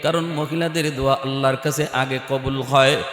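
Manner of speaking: hushed melodic preaching; intoned sermon storytelling. Real, not acted. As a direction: chant the story softly, stretching the line endings.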